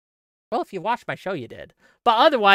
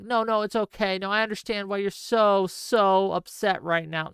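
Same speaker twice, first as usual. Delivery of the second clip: mock soothing. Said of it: "head pat you like".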